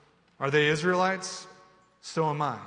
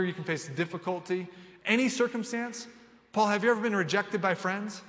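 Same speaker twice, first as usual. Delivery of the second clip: a doubter pressing Paul, incredulous and raised; doubting listener; 5 semitones higher than usual. Retold or imitated. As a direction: push back on Paul in disbelief. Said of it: "You say".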